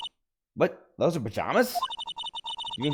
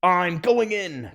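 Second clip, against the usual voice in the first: excited; 7 semitones higher, 5 dB louder, much slower than usual. Acted. Dramatic entry into a room.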